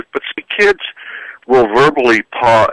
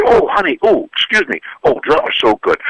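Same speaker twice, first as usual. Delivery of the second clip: mock sweet praise. Parent mocks eye-rolling kid.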